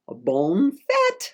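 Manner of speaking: "Bonne fête!" en français, joyeux; French greeting. Shown as a demonstration. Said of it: "That means happy birthday in French".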